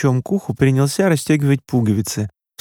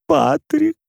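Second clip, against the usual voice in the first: a much higher, sobbing mother's voice; a mother gasping out a name through tears, pitched way up; sobbed name. A narrator's reading. Mother sobbing to her son on the phone, her voice much higher. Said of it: "всхлипнула мама".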